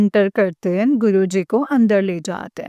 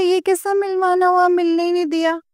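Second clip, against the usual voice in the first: indignant protest; 7 semitones higher, faster than usual. Retold or imitated. Protesting the family's explanation.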